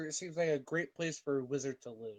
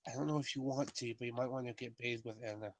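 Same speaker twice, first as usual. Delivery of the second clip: hushed, quick aside; lightly hushed, as if confiding; acted whisper; 3 semitones lower, 6 dB quieter, faster than usual. Player to the raven about bathing, mock whisper. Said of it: "I whisper to the raven".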